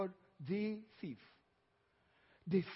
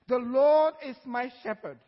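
loud proclamation; 7 dB louder than usual. Acted. Preacher declaring David's words.

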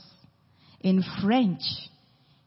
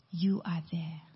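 breathy hushed whisper, barely voiced; 5 dB quieter than usual. Preacher quoting the psalm to the congregation, whispering. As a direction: let the words fall to a whisper.

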